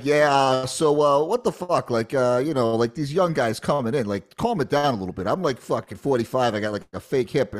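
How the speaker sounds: loose Boston accent, imitating a vet. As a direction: do a rough Boston guy. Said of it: "'cause he's got that Boston accent".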